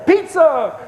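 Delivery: high, loud drawn-out holler; imitated high-pitched yell; mock scream. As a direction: call it out like the screamed accusation. Mimics the scream as harmless call.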